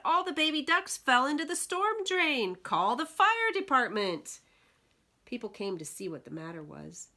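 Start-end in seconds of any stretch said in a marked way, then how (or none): 0.1-4.4 higher, louder urgent call; woman calling for the fire department; alarmed cry. Acted. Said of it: "the woman cried".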